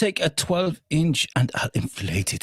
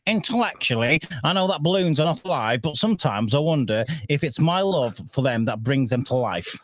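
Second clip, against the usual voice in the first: bad German accent. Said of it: "That was the worst German accent I've ever heard".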